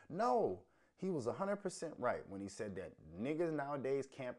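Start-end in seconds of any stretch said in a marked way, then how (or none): 0.1-2.2 high, loud burst of no; emphatic denial. Real, not acted. Answering a chat room doubter, loud and emphatic. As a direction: shoot the question down at full voice.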